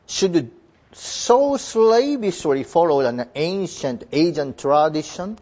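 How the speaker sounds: reads the English sentence slowly and deliberately; careful classroom read-aloud; slow text reading. Shown as a demonstration. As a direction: lay out each word of the passage for students.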